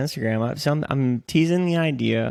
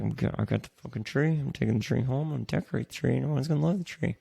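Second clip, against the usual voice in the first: a hint of a grumbling dad, softer; stubborn minivan dad; 6 dB quieter than usual. Friend imitates the minivan dad hauling his tree, lightly voiced and softer. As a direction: mutter the dad's stubborn vow, a touch quieter. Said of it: "He's like".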